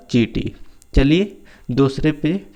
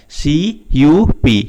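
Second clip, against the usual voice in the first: loud, slow letter by letter; loud slow spelling; 5 dB louder, much slower than usual. Shown as a demonstration. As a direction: call out each letter to the class. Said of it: "teacher spells word loudly, slowly". (ज़ोर से धीरे-धीरे spelling)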